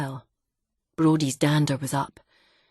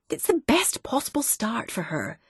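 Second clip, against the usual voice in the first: whispered; 6 semitones higher than usual. Acted. Wife soothing husband.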